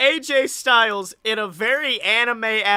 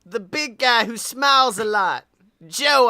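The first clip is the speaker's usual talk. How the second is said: lightly voiced wife answering; a hint of a wife covering for the visit; Styles family voice; 2 semitones higher than usual. Wife telling AJ who used his mug, lightly voiced. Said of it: "I will play the role of the Styles family".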